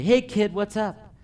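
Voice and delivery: high, lively mock hello to a child; upbeat kid greeting. Employee gets down to greet a customer's kid, upbeat. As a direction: greet a little kid with a loud, bright burst.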